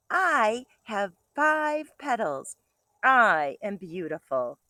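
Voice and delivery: bright storybook read-aloud; reading to children. Acted. Teacher reading a picture book to kindergartners, bright and lively.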